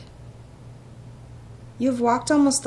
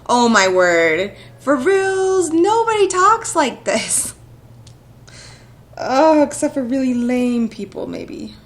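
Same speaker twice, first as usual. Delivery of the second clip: exasperated; 6 dB louder, slower than usual. Real, not acted. Player ranting at the stiff game dialogue, loud and exasperated. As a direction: throw your hands up at how stiff this is.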